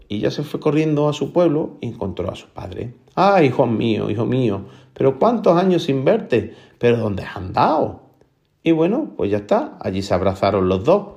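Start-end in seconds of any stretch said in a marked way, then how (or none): 3.2-8.0 emotional greeting. Acted. Father greets son after years apart, mildly acted emotion.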